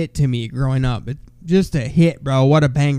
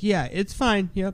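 nervous; 5 semitones higher, 6 dB quieter than usual. Retold or imitated. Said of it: "Dude looked fucking terrified".

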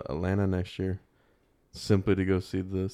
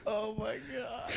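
after laughing hard; 12 semitones higher, 12 dB quieter, slower than usual. Real, not acted. Breathless after big laugh.

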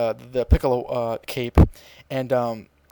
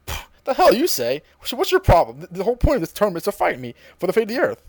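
high, dismissive scoff; scoffing villain; 5 semitones higher than usual. Retold or imitated. Cell scoffing at Gohan refusing to fight, high and dismissive. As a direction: brush him off with contempt.

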